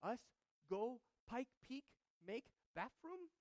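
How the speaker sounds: put-on high, slow little-child voice; toddler asking. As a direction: lightly imitate a two-year-old pleading to go camping. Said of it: "She's been asking us".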